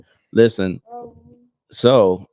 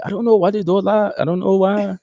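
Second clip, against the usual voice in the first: high-pitched imitation of a baffled Asian man; flustered Asian man impression; 10 semitones higher than usual. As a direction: imitate a puzzled landlord, voice pitched way up. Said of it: "it was an Asian man".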